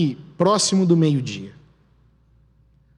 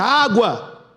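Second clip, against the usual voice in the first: high-pitched mock cry of discovery; imitated shout from the diggers; retold cry; 6 semitones higher than usual. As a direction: call it out high, without full volume. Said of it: "um grita".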